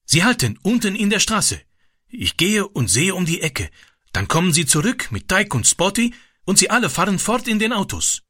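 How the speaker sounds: put-on shy boy voice. A narrator's reading. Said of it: "sehr schnell sprach".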